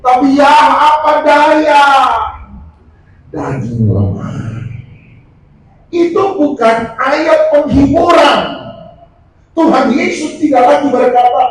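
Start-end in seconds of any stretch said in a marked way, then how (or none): 0.1-8.4 emphatic preaching. Real, not acted. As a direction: hammer the point home to the church. Preacher drives home rebuke.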